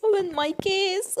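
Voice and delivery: high, loud, very slow laughing imitation; mock eerie echo. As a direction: parrot the creepy line for fun. Mimicking the game voice.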